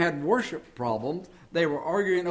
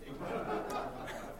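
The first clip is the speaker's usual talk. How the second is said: laugh; 12 dB quieter than usual. Real, not acted. Laughs at his own punchline.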